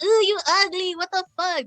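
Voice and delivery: high-pitched teasing recoil; mock disgust. Imitating teasing a girlfriend about looks, mock disgust.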